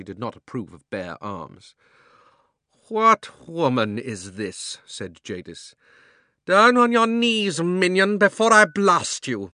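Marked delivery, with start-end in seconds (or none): 2.9-4.8 scornful witch. A narrator's reading. 6.4-9.5 huge, high, slow roaring threat; furious witch. A narrator's reading. Witch threatens Aunt Letty.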